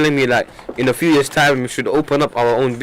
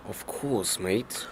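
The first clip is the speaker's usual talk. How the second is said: posh voice; 4 semitones lower, 13 dB quieter, much slower than usual. Pretend. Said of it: "Very posh".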